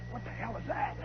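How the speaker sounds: hushed, barely audible question; baffled aside. Acted. Bandsman puzzled by an unknown signal, hushed baffled aside. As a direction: mutter it very softly to yourself.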